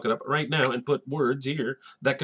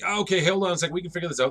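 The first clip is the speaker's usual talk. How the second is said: higher-pitched, hasty appeal; lightly acted nervous negotiating; placating Johnny; 6 semitones higher, faster than usual. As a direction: try to calm an attacker, voice pitched up.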